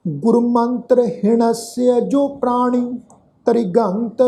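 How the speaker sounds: slow, measured verse with long-held vowels; scripture recitation. Acted. Teacher reciting a shalok to the congregation, slow sustained recitation. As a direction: recite each line slowly, sustaining the endings.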